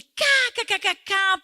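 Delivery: loud high mock laugh of a boastful man; mocking guffaw. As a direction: imitate the man cackling at his own joke. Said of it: "E ele". (imitando a gargalhada debochada do homem)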